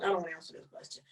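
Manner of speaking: mock mutter under the breath; mumbling under breath. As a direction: mumble it to yourself. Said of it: "mumbling under my breath".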